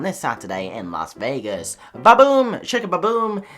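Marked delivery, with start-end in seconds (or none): 1.9-3.4 loud, playful nonsense exclamation; hammed-up outburst; silly shout. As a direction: boom it out for a laugh.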